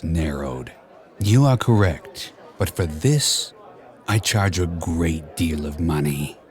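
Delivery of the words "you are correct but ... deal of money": put-on low, soft Spanish-accented bargaining; name your price like a shady cat. A narrator's reading. Hired cat setting his fee to the king, Spanish accent. Puss voiced in story.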